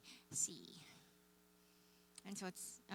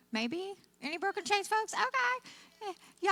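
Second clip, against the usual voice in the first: higher, louder call to the crowd; rally the room; bright upbeat call-out; calling out to audience; 12 semitones higher, 8 dB louder than usual. Real, not acted. Calling out to Broken Chains folks.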